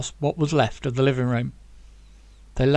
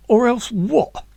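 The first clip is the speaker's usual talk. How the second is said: higher, louder taunting challenge; calling his bluff; 8 semitones higher, 6 dB louder, slower than usual. Acted. Tommy daring Zack to shoot, taunting. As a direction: dare him to follow through. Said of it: "calling his bluff".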